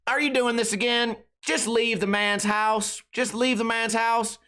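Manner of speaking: high, slow, exasperated mom; weary mom imitation. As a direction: play a fed-up mom.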